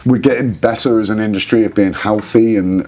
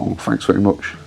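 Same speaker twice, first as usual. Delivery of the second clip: imitating a singer in a Manchester accent, a bit softer; lightly done Manchester accent; 3 dB quieter than usual. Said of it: "Sorry for the Manchester accent".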